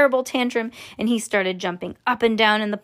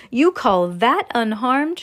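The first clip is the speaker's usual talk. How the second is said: slow, drawn-out, louder reproach; indignant snap; 2 semitones higher, 4 dB louder, slower than usual. Acted. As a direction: stretch it out, affronted. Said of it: "snapped Miss T V".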